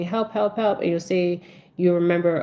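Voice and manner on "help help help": higher-pitched, repeated mock plea; half-acted child's cry for help; imitated grandchild calling for help. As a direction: lightly voice a grandchild begging for help. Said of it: "or your grandchild saying".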